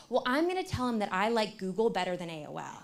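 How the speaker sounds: put-on laughing through a kid's cheeky threat; teacher retelling a cheeky kid's threat while laughing. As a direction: let the laugh bleed into the quote. Kid threatens, teller laughing.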